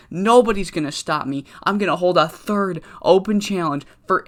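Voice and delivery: lightly voiced gloating champ; cocky wrestler promo. Champion taunting challengers after his bloody win, brash boast. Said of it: "and he's like".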